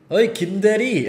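luid "김대리" roepen als een baas; calling out to colleague. Retold or imitated. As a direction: roep je collega bij naam. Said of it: "할 때".

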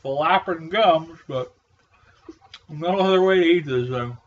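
muffled behind a mask, chewing slowly; behind welding mask. Real, not acted. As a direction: chew and talk behind a mask. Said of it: "not with this mask on".

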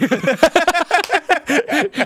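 a high burst of giggling; high giggle. Real, not acted. Laughing high at her own joke about Ashley.

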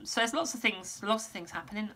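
strained, fading voice; losing voice. Real, not acted. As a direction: voice going hoarse. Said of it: "I'm losing my voice".

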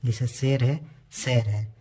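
first "शेर" with e, second said as "शैर" with ai; e versus ai. Shown as a demonstration. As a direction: show the vowel change between the two "शेर". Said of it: "एक ए की मात्रा है, ऐ की मात्रा है". ("शेर" और "शैर" में मात्रा का अंतर)

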